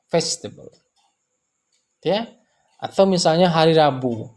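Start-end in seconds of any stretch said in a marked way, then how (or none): 0.1-0.7 Vegetable, veg naik keras lalu turun; tekanan di VEG. Shown as a demonstration. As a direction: hentak veg di atas, sisanya turun. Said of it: "Jadi keras dia ke atas, naik, veg-nya itu turun ke bawah". (Vegetable dengan nada naik di suku pertama)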